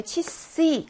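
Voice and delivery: 치씨 with the unstressed first vowel said as "i"; unstressed vowel reduced. Shown as a demonstration. Teacher explains vowel reduction, 치씨 with an "i" sound. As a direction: say 치씨 with a short "i" in 치. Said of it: "강세가 여기 있어서 치씨라고 이 발음이".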